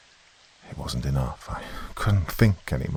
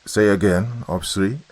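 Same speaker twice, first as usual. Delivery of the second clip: higher, mildly indignant radio reply; 4 semitones higher than usual. A narrator's reading. Zudov answering Ops three over radio, indignant. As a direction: ask for a repeat, affronted. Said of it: "He sounded indignant".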